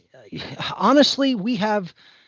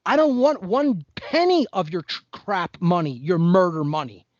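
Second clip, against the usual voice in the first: imagined defiant retort. Pretend. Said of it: "I would be like".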